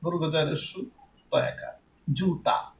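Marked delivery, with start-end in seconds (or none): 2.1-2.7 জুতা in two distinct syllables; জুতা soft and separated, as a model; careful pronunciation demo. Shown as a demonstration. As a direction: say জুতা softly, জু apart from তা. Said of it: "জুতা যখন আমি বলছি".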